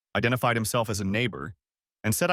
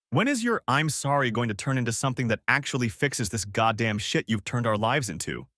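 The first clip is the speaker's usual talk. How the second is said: angry rant. Acted. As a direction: berate her bitterly. Husband berates wife.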